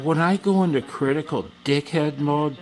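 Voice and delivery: lightly put-on snobby critic; critical dickhead mode. Real, not acted. Man at his workbench mocking his own critic voice. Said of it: "that's the voice".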